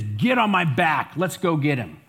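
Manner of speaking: angry, fuming, furious lion voice. Telling a joke, the angry lion answers the monkey: furious lion. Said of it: "He is furious".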